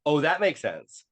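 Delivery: growing revelation, re-enacted; dawning realization. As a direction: act out it clicking, pitch rising with each discovery. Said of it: "things are clicking and I'm like".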